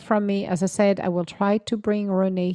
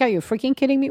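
mock outrage; 7 semitones higher, 3 dB louder, much faster than usual. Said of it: "I'm like".

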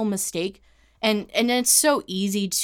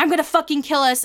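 mock raging threat, higher and louder; retold furious threat; 8 semitones higher, 5 dB louder than usual. Imitating boyfriend heading for the railway, furious. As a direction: imitate his outburst, loud and high.

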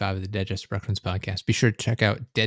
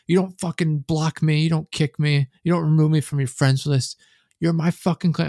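high, loud mock rant; mimicked meltdown in a raised, pushed voice; retold flip-out; 8 semitones higher, 5 dB louder than usual. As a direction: imitate a clan leader raging at traitors. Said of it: "and just flip the fuck out".

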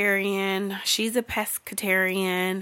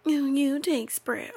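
mocking couple voice; 5 semitones higher, 4 dB quieter, slower than usual. Mimics couple choosing spread.

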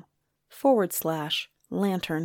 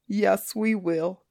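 raspy voice with eagle shrieks; slower than usual. Acted. Griffin echoes, odd voice.

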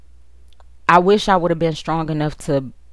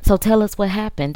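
lightly mimicked nosy caller, higher; nosy question; 6 semitones higher than usual. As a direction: doe het nieuwsgierig na. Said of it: "the conversation will go to".

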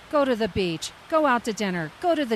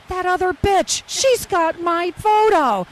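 mock jealous; 6 semitones higher, 7 dB louder, slower than usual. Mock jealousy about the photo.

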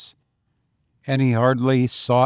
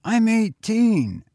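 put-on higher, slow, offhand boy; casual boy; 10 semitones higher, slower than usual. A narrator's reading. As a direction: toss it off lightly, slower. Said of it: "he said casually".

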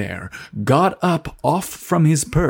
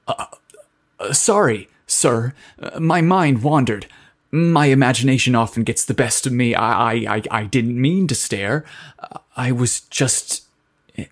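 stuttering. Acted. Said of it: "Dawson stuttered as he replied".

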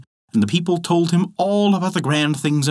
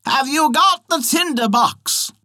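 witch voice; 11 semitones higher, slower than usual. Acted. Witch calls down to soldier.

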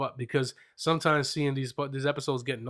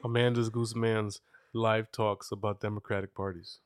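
low mock show-host voice; announcer voice; 6 semitones lower, 5 dB quieter than usual.

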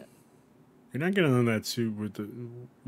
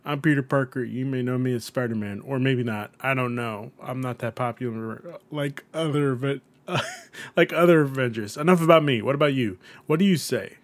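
shy Peter Parker; 4 dB louder than usual. Acted. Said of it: "He's a cute, shy-looking boy who says".

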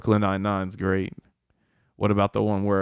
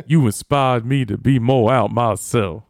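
loud, slow earnest confession; hammed-up heartfelt admission; imitated movie line; 6 dB louder, slower than usual. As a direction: say it big and slow, quoting the film. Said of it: "It's like".

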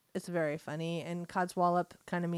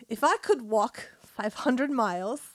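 amateur British accent, slightly raised voice; 3 semitones higher, 4 dB louder than usual. Shown as a demonstration. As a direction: have a shaky go at a British accent. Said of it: "with a British accent".

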